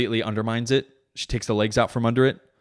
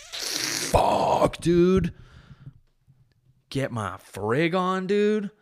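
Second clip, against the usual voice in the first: slow, higher, savoring; lustful; 9 semitones higher, much slower than usual. Acted. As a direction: draw it out with relish. Lustful bit, slow high.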